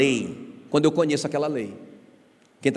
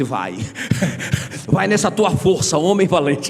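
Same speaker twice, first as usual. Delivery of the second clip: a laughing, mock-heroic send-off; God's teasing reply; 3 dB louder than usual. God answering the pastor, teasing and laughing. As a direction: chuckle it out, louder on the last words. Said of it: "Ele disse".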